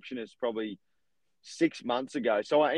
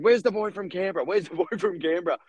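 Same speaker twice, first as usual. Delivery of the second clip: imitated Italian accent, higher pitch; thick Italian accent; 5 semitones higher than usual. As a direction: mimic an Italian caller, lightly accented. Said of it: "in this thick Italian accent".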